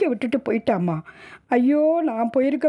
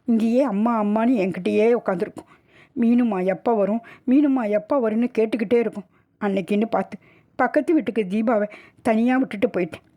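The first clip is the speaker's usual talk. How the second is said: higher, weeping account of a death; tearful lament; 4 semitones higher than usual. Acted. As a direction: tell it through tears, blaming yourself. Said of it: "மாரில் அடித்து கொண்டு அழுதாள்". (அழுதுகொண்டே புலம்புதல்)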